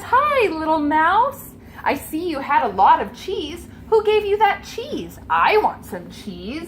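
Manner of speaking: a hint of a friendly pup; puppy greeting the mouse, lightly voiced. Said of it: "he says".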